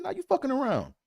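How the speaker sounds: very high mock dad scolding; mock angry dad. Imitating dad accusing son, high mock scold. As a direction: play the dad calling him out.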